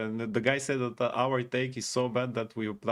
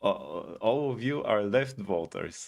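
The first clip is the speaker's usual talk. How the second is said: mocking quote; 3 semitones higher, slower than usual. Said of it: "and the guy said".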